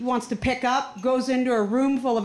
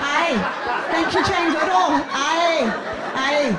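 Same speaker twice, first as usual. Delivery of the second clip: Scottish aye; slower than usual. Retold or imitated. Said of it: "Wrong accent, you stupid Canadian".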